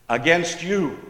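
AGAINST YOU set apart with mild stress; emphatic position. Shown as a demonstration. Preacher showing the Hebrew emphatic position, mildly stressed. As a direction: lean lightly on "against you". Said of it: "in the emphatic position".

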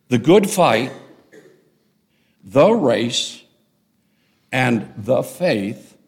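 "The good fight", "the race", "the faith" each set apart by long pauses; emphatic phrases. Shown as a demonstration. Pastor showing the Greek emphatic positions, each phrase stressed. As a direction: land firmly on "fight", "race" and "faith", one at a time. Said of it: "are in the emphatic positions in the Greek".

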